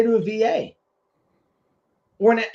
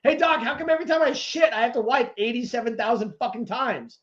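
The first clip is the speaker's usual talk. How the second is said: sarcastic complaint; 3 semitones higher than usual. Retold or imitated. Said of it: "You fucking tell me".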